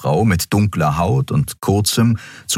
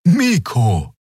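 Xea correcting; 7 semitones higher than usual. A narrator's reading. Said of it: "verbesserte sie".

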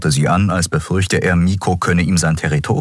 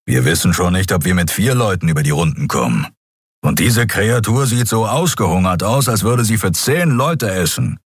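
lightly voiced grumbling creature; grumbling engineer. Keru to the captain objecting, lightly grumbling.

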